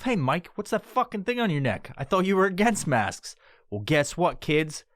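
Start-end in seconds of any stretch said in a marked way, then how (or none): 0.0-3.4 imagined viewer asking. Retold or imitated. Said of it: "you might be asking yourself".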